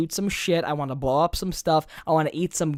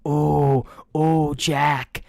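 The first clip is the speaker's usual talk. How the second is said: hammed-up pleasure moans; mock moaning; 2 semitones lower, much slower than usual. Guy joking about a hookup, mock moaning. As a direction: fake a breathy climax for laughs.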